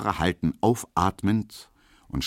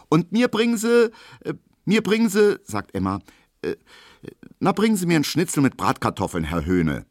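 dithering maid; 11 semitones higher, 4 dB louder than usual. A narrator's reading. Maid dithering over her order.

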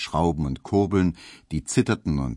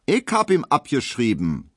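firm maid; 7 semitones higher, 3 dB louder than usual. A narrator's reading. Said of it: "in einem Ton, den man deutlich".

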